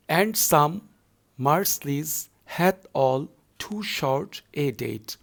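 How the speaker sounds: slow, measured verse reading; poem recitation. Shown as a demonstration. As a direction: read it slowly and evenly. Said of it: "Fourth line".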